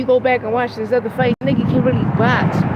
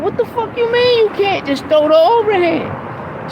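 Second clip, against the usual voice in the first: exasperated dad roaring at his fighter; frustrated corner yell; 11 semitones higher, slower than usual. Retold or imitated. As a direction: bark it at your son from ringside. Father yelling at son mid-fight.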